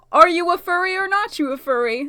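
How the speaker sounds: secretive whispered guess; hushed whisper peering at other cars. Pretend. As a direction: whisper it like spying on strangers. Guessing furries from car window.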